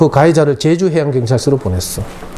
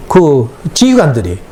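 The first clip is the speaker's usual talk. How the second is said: usual speaking voice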